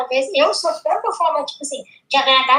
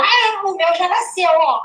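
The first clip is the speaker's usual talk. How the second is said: imitating little girl; 5 semitones higher, slower than usual. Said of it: "Aí ela".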